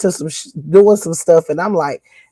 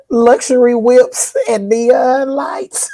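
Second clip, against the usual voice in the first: slow, higher, stretched-out exclamation; playful hype shout; 6 semitones higher, much slower than usual. Pretend. Host hyping the party bus, playful drawn-out shout. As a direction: hype it up, drawing out each word.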